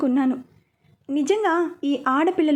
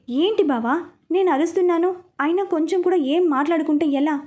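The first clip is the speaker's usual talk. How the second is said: exasperated complaint; 3 semitones higher than usual. Acted. Young wife shaking her unresponsive husband, exasperated higher complaint. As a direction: push him for an answer, fed up. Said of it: "అంటూ అడుగుతుంది".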